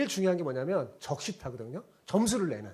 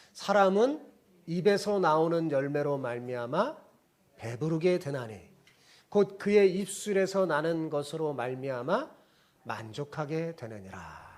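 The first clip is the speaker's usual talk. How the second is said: louder, measured recitation of the verse; scripture reading; 3 dB louder than usual. Acted. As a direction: read it aloud with the congregation. Leads congregation reading scripture. (회중과 함께 성경을 낭독하는 목사)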